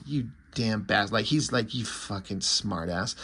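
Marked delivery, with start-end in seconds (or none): 0.1-1.1 a lightly voiced low, soft insult; quiet insult. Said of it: "says quietly". 1.7-3.2 slow, much softer, lower mock insult; quiet insult. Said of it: "he says that quietly".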